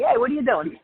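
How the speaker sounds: thick Brooklyn New York accent, words run together. Shown as a demonstration. Calling to a friend named Tina in a Brooklyn accent. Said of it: "we need an interpreter for this".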